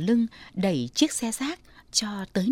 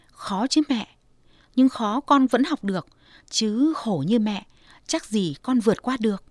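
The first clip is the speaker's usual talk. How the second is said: teary. Acted. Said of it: "rơm rớm nước mắt".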